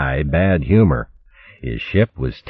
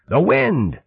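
much higher, held bellow on "wind"; final roar; 13 semitones higher than usual. Acted. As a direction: stretch "The wind!" into a high pirate roar. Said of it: "Chopsnout roared".

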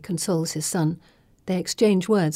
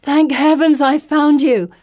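a much higher, louder, slow gushing trill; 9 semitones higher, 9 dB louder, slower than usual. A narrator's reading. Felicity greeting her friend with a high trill. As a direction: sing out your relief. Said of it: "Felicity trills".

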